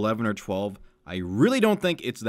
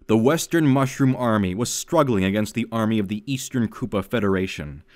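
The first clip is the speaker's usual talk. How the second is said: louder, earnest storybook narration; reading her childhood fanfic to friends, earnest narration; story reading; 4 dB louder than usual. Acted. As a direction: read it like an epic war tale. Reads old fanfic aloud.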